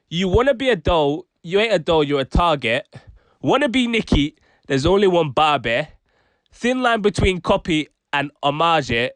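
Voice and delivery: lightly put-on Brummie rap recital; mild Brummie accent on the rhymes. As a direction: recite the bars with a hint of Birmingham. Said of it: "the Brum accent".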